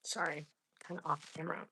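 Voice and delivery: hushed whisper. Real, not acted. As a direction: whisper it off mic. Whispering off camera.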